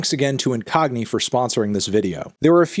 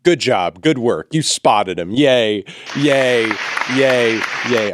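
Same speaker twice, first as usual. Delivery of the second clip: put-on kids show host. Mock kids show host intro.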